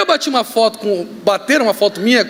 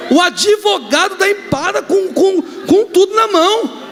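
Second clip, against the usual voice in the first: laughing; 7 semitones higher, slower than usual. Real, not acted. Retelling absurd message, laughing.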